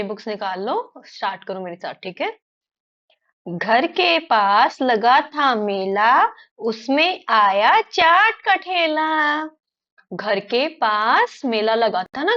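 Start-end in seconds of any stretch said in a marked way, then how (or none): 3.5-9.4 put-on slow sing-song children's verse; poem recitation. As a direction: recite slowly, stretching each word with a lilting tune.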